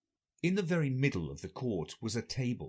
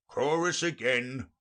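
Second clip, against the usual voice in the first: slow, lightly raised call; crying out; 3 semitones higher, 3 dB louder than usual. Acted. Gryphon demands the chorus, mild cry. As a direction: call for it with drawn-out words. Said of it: "cried the Gryphon".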